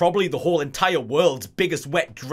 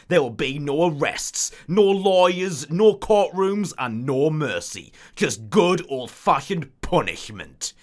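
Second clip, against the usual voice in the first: slow, deliberate trailer voice; movie trailer narration; slower than usual. Acted. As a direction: intone each item with menace. Narrating mission briefing.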